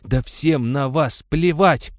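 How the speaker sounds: slow, loud furious outburst; enraged. A narrator's reading. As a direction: spit each word out in rage. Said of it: "рассвирепел Венчура".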